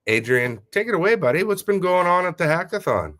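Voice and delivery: normal talking voice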